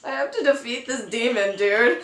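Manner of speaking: casual, offhand mock-hero reply; nonchalant. Dreamer explains herself to her ex-boyfriend, nonchalantly. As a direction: toss it off as no big deal. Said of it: "I was so nonchalant about it".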